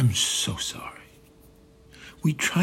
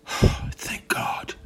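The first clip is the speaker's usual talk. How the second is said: relieved. Acted. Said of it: "immensely relieved".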